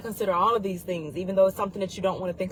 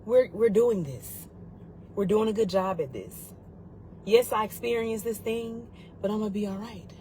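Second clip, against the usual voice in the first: inner voice; 2 semitones higher than usual. Retold or imitated. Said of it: "find that internal voice that tells you".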